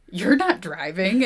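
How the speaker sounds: slow, mock-winded protest; lightly faked breathless student; out of breath. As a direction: gasp it out after chasing up a hill. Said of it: "out of breath".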